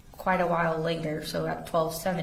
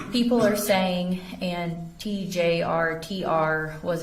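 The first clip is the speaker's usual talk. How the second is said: louder read of an all-caps text; raised voice for a text in capitals; 4 dB louder, slower than usual. Retold or imitated. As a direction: push the volume up to show the capitals. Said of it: "And then in all caps".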